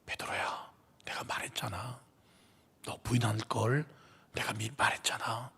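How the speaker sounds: 베드로에게 속삭이듯 다정하게; gentle whispered reproach, full of love; tender whisper. Acted. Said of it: "바로 그 눈빛이었어요". (베드로를 다독이며 속삭이는 예수님)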